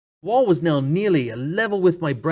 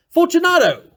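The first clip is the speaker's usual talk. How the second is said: high, loud call into the dark; called aloud; 13 semitones higher, 5 dB louder than usual. Acted. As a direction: call out into the wall. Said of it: "I called aloud".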